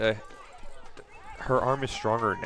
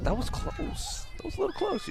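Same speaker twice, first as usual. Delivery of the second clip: excited near miss; 5 dB quieter than usual. Real, not acted. Commentator reacting to near catch.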